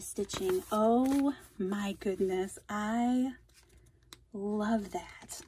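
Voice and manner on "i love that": whisper. Real, not acted. Quiet delight over gift.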